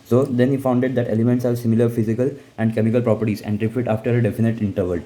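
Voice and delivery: slow, deliberate dictation pace; slow textbook reading voice; reading notes aloud. Acted. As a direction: read it out word by word for notes. Teacher reading notes aloud slowly.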